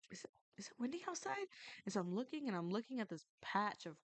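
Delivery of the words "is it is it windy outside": hushed, breathless whisper, higher and quicker. Retold or imitated. Asking her friend again in a secret whisper. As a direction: whisper it fast so only she hears.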